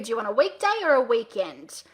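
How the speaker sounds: WEEKDAY lifted up, WEEKEND dropped down; up then down intonation. Shown as a demonstration. Coach offers a client two dates, rising on weekday, falling on weekend. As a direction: raise the voice on weekday, let weekend fall. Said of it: "Voice goes up, voice goes down".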